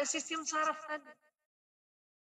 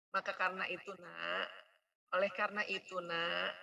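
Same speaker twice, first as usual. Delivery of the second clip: lower, gentle "karena itu, Nak"; soft, patient parent tone; softer phrasing; 5 semitones lower than usual. Shown as a demonstration. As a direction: ease it down gently to the child. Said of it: "Itu lebih soft".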